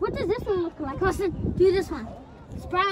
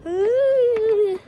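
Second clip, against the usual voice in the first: ghost noise; 5 semitones higher, 3 dB louder than usual. Shown as a demonstration. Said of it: "I just made a ghost noise".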